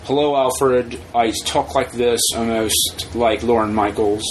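slow, measured character voice; lightly imitated superhero speech; Christian Bale as Batman. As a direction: talk slowly in a put-on hero voice. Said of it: "Christian Bale as Batman".

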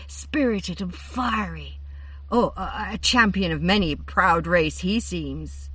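drip honey on every word; honey-coated. A narrator's reading. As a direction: Findevar gazing dreamily at the third chariot. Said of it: "her voice grew honey-coated".

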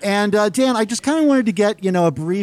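muffled by a face mask; talking through a mask. Real, not acted. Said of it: "we are both talking through masks".

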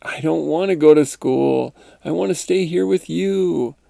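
lightly voiced child's protest to mother; mild plea of a reluctant kid; pleading schoolkid. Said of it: "I then said".

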